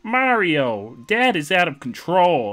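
put-on high, loud kid-villain voice; Bowser Junior. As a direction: cry for help as a loud, high-pitched little koopa. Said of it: "This is the voice of Bi-, of Bowser Junior".

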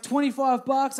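loud, lifted, gleeful retelling; excited kid. Retold or imitated. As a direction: pitch it up like a thrilled kid. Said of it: "I was all excited".

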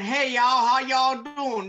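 loud, high Texas drawl; Texas accent. Acted. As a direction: holler a big Texas howdy. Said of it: "This is my Texas accent".

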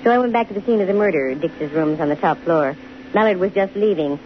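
hardboiled detective narration, even and dry; steady first-person crime narration; story narration. A narrator's reading. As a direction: tell it like a private eye looking back. Detective narrates story between scenes.

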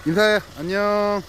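high sing-out farewell; cutesy goodbye. Real, not acted. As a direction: coo a goodbye to puppies, high. Saying goodbye to the puppies.

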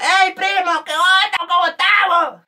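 high, loud greeting across a crowd; shouted greeting. Acted. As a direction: holler excitedly to a cousin. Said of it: "Y te gritan". (saludo a gritos, agudo)

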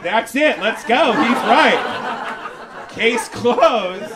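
eager agreement. Retold or imitated. Police agreeing, voiced eagerly.

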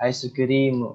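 "Ice cream" said Japanese-style with a drawn-out ri; long RI in cream. Shown as a demonstration. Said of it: "Ri-nya panjang mungkin ya".

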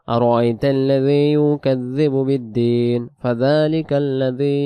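slow, long-held tajweed recitation; Quran recitation. Shown as a demonstration. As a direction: recite the verses very slowly, stretching the vowels.

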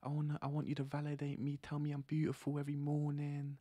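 lightly voiced girl asking for validation; a hint of a needy girlfriend; mock girlfriend voice. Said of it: "So if they say".

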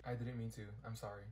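ordinary talk

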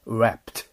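wrapped launched from a rounded 'u'. Shown as a demonstration. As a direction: say wrapped with tongue down for the R. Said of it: "うの口をして".

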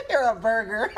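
words broken by chuckles; laughing tease. Real, not acted. Streamer calling the caller a burger, laughing. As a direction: tease while still recovering from laughter.

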